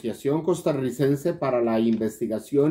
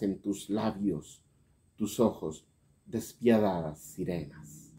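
dramatic poem reading, swelling and falling away; declaimed verse with emphatic openings and hushed closes; poetry recitation. Acted.

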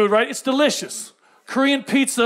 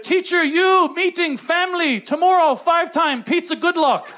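broken Konglish text; 4 semitones higher, slower than usual. Retold or imitated. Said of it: "and it said".

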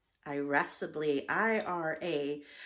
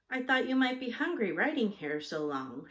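gently voiced concern, higher pitch; gentle; 6 semitones higher, 3 dB louder than usual. A narrator's reading. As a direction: offer it kindly, lightly lifted in pitch. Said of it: "she said gently".

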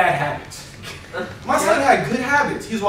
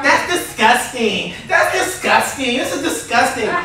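Peppa Pig; slower than usual. Retold or imitated. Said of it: "Peppa Pig, she says this all the time".

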